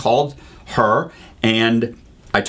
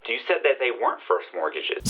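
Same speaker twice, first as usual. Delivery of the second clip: softened mock scream, like a voice from a phone; held-back mock yell; retold screaming; 8 dB quieter than usual. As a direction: imitate an irate caller yelling at a distance. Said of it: "is screaming".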